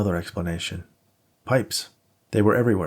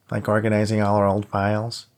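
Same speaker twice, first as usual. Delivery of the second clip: light whiny imitation of Emily; whiny mocking voice. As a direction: mimic her in a whiny voice. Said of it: "mimicked Emily's question in a whiny voice".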